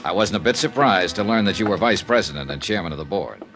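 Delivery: dry, wry report read to the client; radio detective narration. A narrator's reading. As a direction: narrate it like a hard-boiled expense letter. Detective reads expense report aloud.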